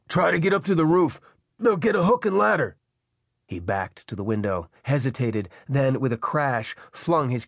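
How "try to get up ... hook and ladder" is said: raised, high urgent instructions; Pelham shouting. A narrator's reading. Man directing trapped woman to the roof, shouting. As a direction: shout directions to someone far above. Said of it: "he shouted".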